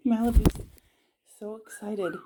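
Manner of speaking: ordinary talk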